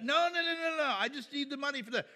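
mock pushy customer wanting cash; pleading customer. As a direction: play the customer refusing the offer. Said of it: "he was like".

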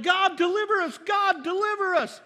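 high, loud mock plea to God; wailing crowd plea, acted; pleading cry. Acting Israel crying out for deliverance.

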